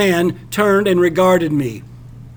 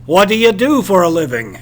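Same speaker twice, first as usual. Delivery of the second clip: louder, quick, sharp demand; 5 dB louder, faster than usual. Acted. Captain sharply demanding the narrator's living. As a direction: snap the question out fast. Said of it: "he sharply demanded".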